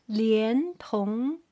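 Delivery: 连同 drawn out with both syllables rising; two second tones. Shown as a demonstration. Teacher modelling second tones, 连 and 同 both rising. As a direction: lift 连, then lift 同 likewise. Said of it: "second line for the second tone".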